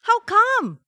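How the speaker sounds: put-on high, disbelieving child voice; child's rising, incredulous protest; dismayed cry. A narrator's reading. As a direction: question it in shocked dismay. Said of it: "Feliz cried".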